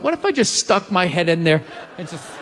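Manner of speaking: giggling through the thought; laughing. Retold or imitated. Comic imagining his own dark joke, laughing. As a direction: laugh it out as you say it.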